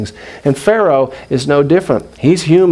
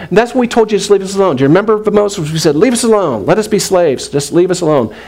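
mock complaint; 5 semitones higher than usual. Voices Israelites complaining at Moses.

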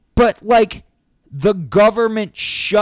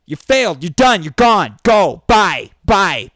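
loud, hard send-off; angry dismissal; 5 dB louder than usual. Real, not acted. Ranting vlogger to politicians, loud angry dismissal. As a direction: throw them out loudly.

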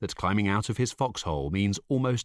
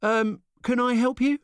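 annoyed; 4 dB louder than usual. A narrator's reading. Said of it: "Jackson, annoyed".

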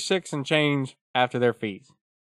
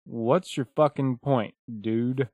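annoyed retort; 5 dB quieter, slower than usual. Retold or imitated. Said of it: "I would like to say to Dave".

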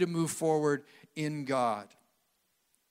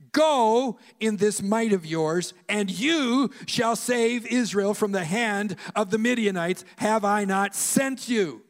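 Lord's command; 4 semitones higher, 5 dB louder than usual. Acted. The Lord voiced commanding Gideon.

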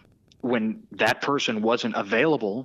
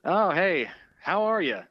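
Boomer Esiason; 6 semitones higher than usual. Acted. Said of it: "Boomer has one thing to say".

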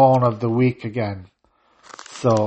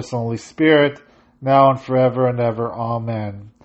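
steady, measured liturgical intoning; litany prayer; faster than usual. Acted. Priest leading the congregation in the litany, prayerful intoning. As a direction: lead the congregation through the petitions.

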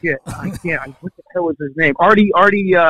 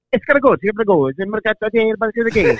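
fake Italian gibberish; 5 semitones higher than usual. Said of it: "my dad looks back at him and he goes".

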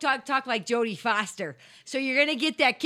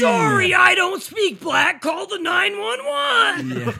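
loud high shout, slowing; 7 semitones higher, 9 dB louder, slower than usual. Acted. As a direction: yell it in mock outrage. Acted bigot, shouting.

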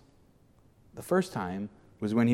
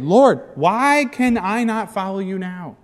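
higher, louder, slow question; frustrated plea; 8 semitones higher, 5 dB louder, slower than usual. Acted. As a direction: push the question hard. Peter frustrated.

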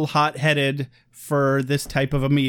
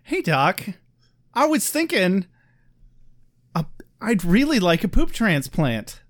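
lightly eager request; mock enthusiasm; 3 semitones higher than usual. Patient asks his doctor with mild mock enthusiasm. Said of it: "as enthusiastically as possible".

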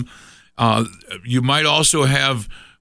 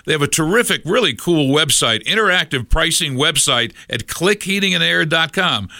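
upbeat, higher sponsor read; radio ad read; 3 semitones higher than usual. Acted. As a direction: sell it like a live radio spot.

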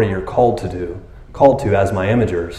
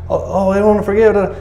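higher mock whine of a reluctant believer; whiny complainer; 9 semitones higher than usual. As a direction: whine it like a sulky child.

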